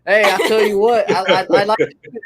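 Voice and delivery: lightly put-on cartoon dad calling his son; a hint of a good-old-boy father hollering for his boy; Hank Hill voice. Friend shows his habit of the old cartoon voice, lightly voiced good-old-boy dad. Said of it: "do that voice all the time".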